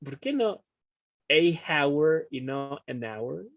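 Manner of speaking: a hour and an hour set side by side slowly, a stressed; slow, weigh a against an in a hour; contrast stressed. Shown as a demonstration. Teacher contrasting the two articles for the class. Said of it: "Lo dije mal, yo sé".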